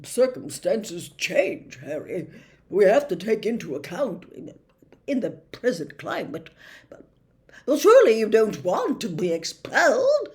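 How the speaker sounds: nervous forced cheer; awkward Fudge. A narrator's reading. Minister dodging Harry's question, awkwardly jolly. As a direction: cover discomfort with a laugh.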